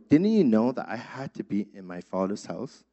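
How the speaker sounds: quiet, calm and matter-of-fact; young Jesus calmly answering his worried parents. Retold or imitated. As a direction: answer gently, without any fuss. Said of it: "Jesus very calmly says".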